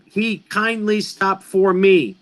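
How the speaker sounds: "he kindly stopped for me" spoken slowly, each beat even; slow down and count the beats of "he kindly stopped for me"; slowed recitation for counting; slow syllable count. Shown as a demonstration. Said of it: "That's six syllables".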